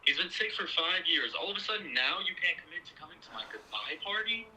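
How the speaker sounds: high-pitched, incredulous outburst; indignant. Acted. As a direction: throw her words back at her, exasperated. Daughter argues with mother.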